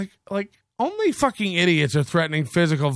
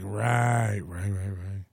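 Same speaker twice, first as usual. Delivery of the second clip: sarcastic; 9 semitones lower, 7 dB quieter, much slower than usual. Pretend. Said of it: "dismissive reply".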